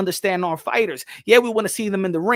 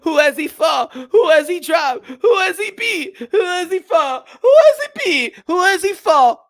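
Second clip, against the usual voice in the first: heated challenge; 6 semitones higher, 5 dB louder than usual. Real, not acted. Challenging the doubters.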